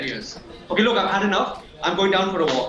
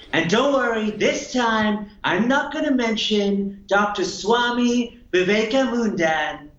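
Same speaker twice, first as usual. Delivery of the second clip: a light Trump voice, brash showman; hammed-up Trump rally bluster; mild Trump impression; Donald Trump impression; slower than usual. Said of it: "starting with President Donald Trump".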